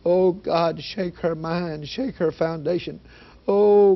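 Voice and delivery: re-enacted pleading prayer, building in intensity; strong fervent prayer. Father praying over his daughter's bed, strong fervent plea. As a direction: pray it hard, rising as you go. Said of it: "voice started coming out of me praying so strong".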